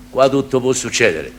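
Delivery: put-on town drunk. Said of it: "Tu fai l'ubriacone filosofo".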